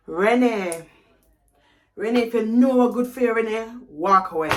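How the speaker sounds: put-on scolding mother's voice; angry mum. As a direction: tell yourself off in mum's voice. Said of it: "calling my name the way my mum calls me".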